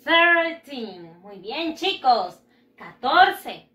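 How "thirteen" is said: "thirteen" drawn out from a strong TH; tongue between the teeth to start "thirteen". Shown as a demonstration. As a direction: model "thirteen" slowly with a clear TH. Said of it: "Con la lengua".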